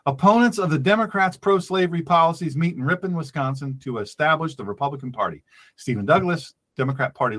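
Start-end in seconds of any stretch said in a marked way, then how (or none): 0.1-5.4 slower and more deliberate; spelled out at a slower pace. Shown as a demonstration. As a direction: lays each fact out slowly for the class. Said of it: "I'll say it again slower".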